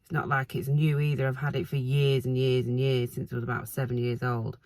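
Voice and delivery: hoarse from hay fever, croaky throughout; croaky, rough hay-fever voice. Real, not acted. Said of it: "I'm sorry about my croaky voice".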